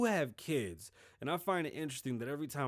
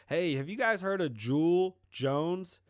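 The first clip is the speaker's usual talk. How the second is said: excited callout; 6 semitones higher, 7 dB louder than usual. Real, not acted. Loud excited topic opener.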